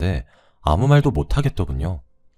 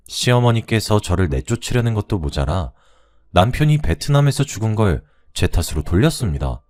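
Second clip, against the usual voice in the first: plain reading voice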